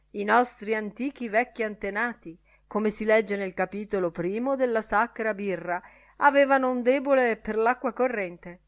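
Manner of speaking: a touch of mock solemnity; joking Lenihan. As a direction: recite it as a jesting parody of scripture. Lenihan jests in mock scripture.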